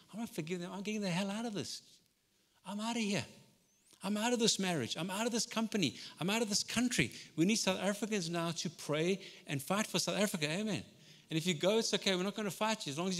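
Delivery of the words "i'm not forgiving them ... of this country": higher, stubborn protest; mock the one who storms out; defiant believer. Voicing an angry believer.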